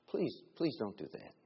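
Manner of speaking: kindly request. Retold or imitated. Preacher gently asking the cursing coordinator, kindly. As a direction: ask her kindly not to curse. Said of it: "just kindly going".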